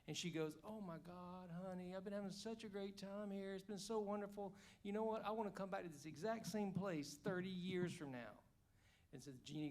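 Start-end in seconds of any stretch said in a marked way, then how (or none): 0.7-8.3 higher, lightly voiced excited wife; wife's voice. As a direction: gush like a delighted wife, a touch higher. Wife answers the genie in joke.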